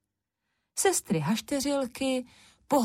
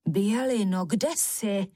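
calling out; slower than usual. A narrator's reading. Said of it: "vykřikla Durmana".

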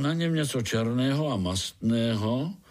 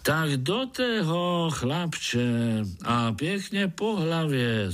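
high, slow mole egging him on; mole's cheerful call; 6 semitones higher, slower than usual. Acted. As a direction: call out like diving in headfirst. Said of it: "zvolal Krtek".

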